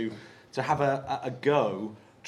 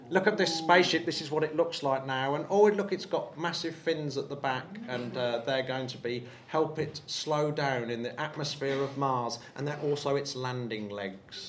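lightly voiced eager space nerd. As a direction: rattle it off like a keen nerd. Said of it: "Is that your nerd voice".

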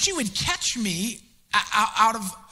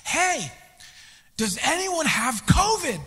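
high, slow, louder casual question; dispatcher voice; 6 semitones higher, 4 dB louder, slower than usual. Retold or imitated. Police dispatcher answering the panicked call, high unbothered question. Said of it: "the dispatcher's like".

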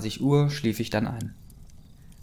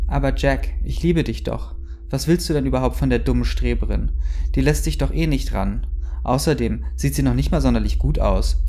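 higher, louder, catty pleading; bitchy whine; 3 semitones higher, 5 dB louder than usual. Acted. Jealous girl pleading with Jack, then sneering, catty and whiny. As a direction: sneer at the rival like a jealous schoolgirl. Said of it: "zickte Jessica".

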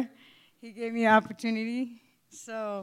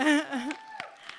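nervous laugh; 5 semitones higher than usual. Real, not acted. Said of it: "This is my first time on a stage".

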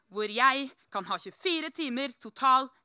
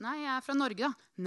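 dry reply. Retold or imitated. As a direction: answer a stranger drily, giving little. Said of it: "da sier jeg litt sånn tørt". (litt tørt og lavmælt svar)

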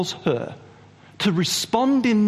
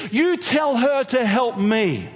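slow, higher, pressing each word; mild mock demand; 6 semitones higher, slower than usual. Martha demanding that Jesus send her sister to help, slow and pressing. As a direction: demand it like an irritated hostess. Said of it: "She's getting warmed up".

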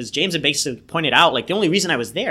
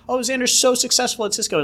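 much higher, gushing impression of friends; mock admiring friends; 12 semitones higher than usual. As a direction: toss it off like proud relatives bragging. Friends praising, imitated.

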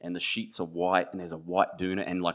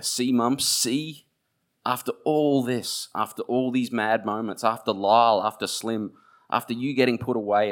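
crying plea; 4 semitones higher, 5 dB louder than usual. A narrator's reading. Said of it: "And I'm crying now".

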